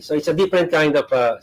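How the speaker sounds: talking with a mouthful; mouth full. Real, not acted. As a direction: speak through a mouthful of chips. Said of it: "Sorry to talk with my mouth full".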